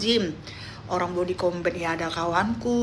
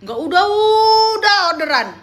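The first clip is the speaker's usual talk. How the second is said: overwhelmed joy; 4 dB louder than usual. Retold or imitated. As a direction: gush about never-ending orders. Retelling her overwhelmed joy.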